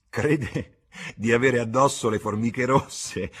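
high, loud, drawn-out jeer; mocking laughter. Woman jeering at an old man brushing his sleeve, mocking laughter. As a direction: call it out slowly, loud and high, making fun. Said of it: "disse ridendo una delle due".

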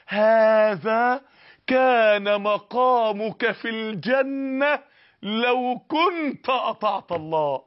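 very slow, heavy, final; solemn verdict. Retold or imitated. Voice speaking to the sinner in the grave, very slow and grave. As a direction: pronounce judgment word by word. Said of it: "ثم يقال له".

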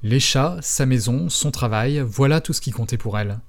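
steady reading of a novel aloud, quotes lightly voiced; story narration. A narrator's reading. Podcast host reading the novel to listeners: audiobook narration. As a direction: read the passage to the listeners like an audiobook.

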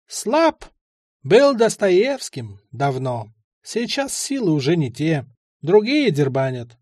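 lightly voiced old man, slowing on the past; vague old man. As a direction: muse like a foggy old stoner.

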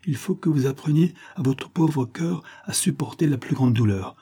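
lightly voiced motherly consoler; solemn motherly figure. Good lady prepares Harry for great grief, solemn and tender. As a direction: brace him gravely, with understated compassion.

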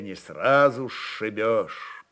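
normal talking voice

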